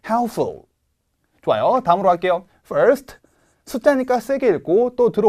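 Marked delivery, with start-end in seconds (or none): 0.1-0.6 helpful said with the p silent. Shown as a demonstration. Teacher models the correct pronunciation. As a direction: drop the p: helful. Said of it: "따라해 보실게요".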